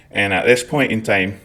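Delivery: thicker Scottish accent, "At this point in time" with broad Scottish vowels and rolled r; stronger Scottish accent. Shown as a demonstration. Showing viewers his accent turned up, heavier Scottish accent. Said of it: "it's a wee bit stronger".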